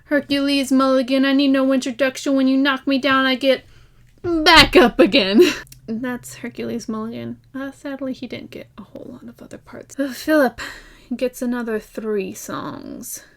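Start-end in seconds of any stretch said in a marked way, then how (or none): 0.1-5.4 loud proud shout; shouted lyric. Retold or imitated. Mulligan announcing himself at Yorktown, shouted. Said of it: "And then Yorktown". 8.1-10.0 soft unvoiced whisper. Real, not acted. Lamenting Mulligan's few parts, whispered.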